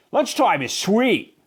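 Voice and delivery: slow, eager mild yell; happy yell. A narrator's reading. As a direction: cheer it out. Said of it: "yelled Clark the Shark".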